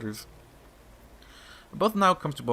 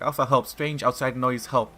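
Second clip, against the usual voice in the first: a hint of a frightened whimper, louder; whimpering creature voice; 5 dB louder than usual. Pyrseed begging Alpha for help, whimpering. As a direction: plead like a scared pet.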